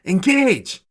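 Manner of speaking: high, loud shouted command; yell. A narrator's reading. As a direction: bark the order out. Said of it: "She yells".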